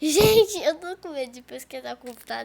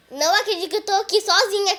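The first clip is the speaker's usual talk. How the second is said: laughing, loud disbelief; 6 semitones higher, 8 dB louder than usual. Real, not acted. Left alone in game.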